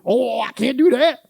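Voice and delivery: mock the reluctant volunteer; stretched-out whining refusal; whiny excuse. Mimicking church members' excuses.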